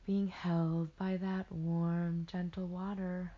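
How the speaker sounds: unhurried guiding voice with pauses; gently steer them back to the image; guided meditation. Acted. Meditation guide reminding listeners they are held, unhurried guided delivery.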